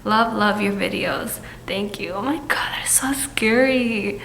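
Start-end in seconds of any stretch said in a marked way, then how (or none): 2.1-4.2 scared whisper. Real, not acted. Reacting to scary story.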